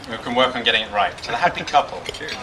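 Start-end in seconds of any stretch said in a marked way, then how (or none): 1.2-2.3 toast. Shown as a demonstration. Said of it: "let's just practice a quick toast now".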